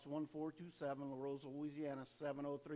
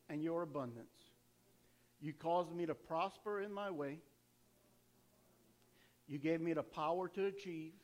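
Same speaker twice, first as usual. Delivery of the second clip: leading a prayer. Acted. Leads congregation in repeated prayer.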